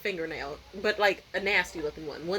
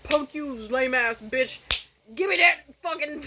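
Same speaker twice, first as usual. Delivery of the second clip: rude customer; 4 semitones higher than usual. Pretend. Imitating rude crackhead customer.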